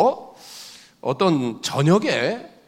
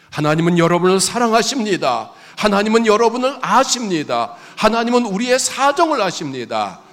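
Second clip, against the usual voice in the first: fervent preaching; 5 semitones higher, 5 dB louder than usual. Acted. Pastor assuring the congregation, louder and higher preaching. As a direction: proclaim each line to the congregation.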